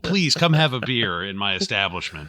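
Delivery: high, gushing fake-friendly welcome; mock fawning barman. Mocking the bar owner welcoming the federal cop, high and gushing. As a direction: ham up a syrupy host greeting.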